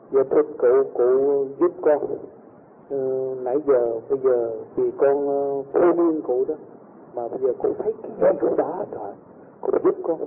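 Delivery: lightly imitated begging, dropping to near whisper at the end; humble pleading. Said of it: "năn nỉ ổng đi, xuống giọng đi".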